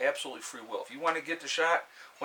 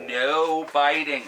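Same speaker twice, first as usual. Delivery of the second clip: slow, louder firm command; scolding the puppy; 3 semitones higher, 10 dB louder, much slower than usual. Real, not acted. Owner telling his biting puppy off, firm and slow. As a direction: tell the puppy off, slowly.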